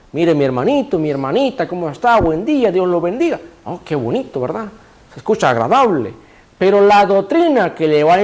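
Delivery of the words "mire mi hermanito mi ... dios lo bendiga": mock-friendly preacher at the door, understated; sweet angelic talk. Preacher imitating a friendly door-to-door visitor, mildly sweet. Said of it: "con palabras angelicales".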